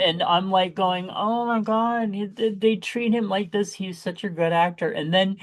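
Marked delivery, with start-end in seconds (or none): 1.1-4.9 retold dismay. Retold dismayed reaction to film.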